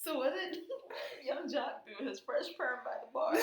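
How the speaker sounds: giggling through the question; laughing. Real, not acted. Co-host recapping a silly show scene, laughing. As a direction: barely get the question out for giggles.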